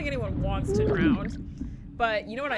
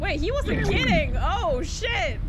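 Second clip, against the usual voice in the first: being chased; 8 semitones higher, 4 dB louder, slower than usual. Real, not acted. Fleeing collapse in game.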